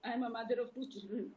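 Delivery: real tearful pledge, with halting pauses; on the verge of crying. Real, not acted. A mother pledging to fight for Jia, close to crying. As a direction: push on through tears, stopping to recover. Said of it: "Don't cry".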